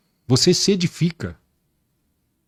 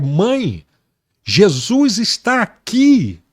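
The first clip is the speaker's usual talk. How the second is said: mildly raised, stretched-out cry; retold excited shout; 3 semitones higher, much slower than usual. Son calling his mother to see Jesus, mildly shouted. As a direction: call out to mother, drawn out, without really shouting. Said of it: "eu comecei a gritar".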